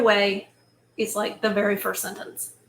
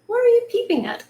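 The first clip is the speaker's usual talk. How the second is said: calling out; 13 semitones higher, 3 dB louder, faster than usual. Acted. Father calls to Hansel.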